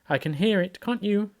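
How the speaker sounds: high, nervous question; anxious. A narrator's reading. Piglet nearing the trap, high and anxious. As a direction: ask in a worried little voice. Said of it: "said Piglet anxiously".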